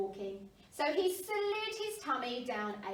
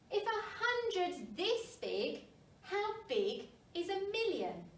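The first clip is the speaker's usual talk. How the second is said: higher eager question; 7 semitones higher than usual. A narrator's reading.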